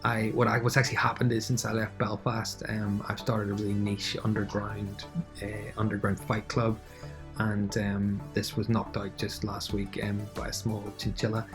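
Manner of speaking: missing tooth. Real, not acted. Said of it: "excuse the missing tooth".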